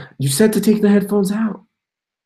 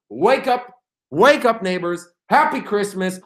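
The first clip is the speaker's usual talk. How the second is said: higher mock call to the neighbours; 4 semitones higher than usual. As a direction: rouse the neighbours playfully. Calling neighbors at 7am.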